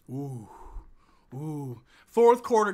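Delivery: ordinary talk, nothing marked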